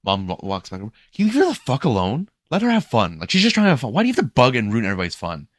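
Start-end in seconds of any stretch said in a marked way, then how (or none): 1.1-5.5 high, loud mimicked yelling; mock angry yell. Angry mom yelling at the lifeguard, mock yell. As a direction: imitate her laying into you.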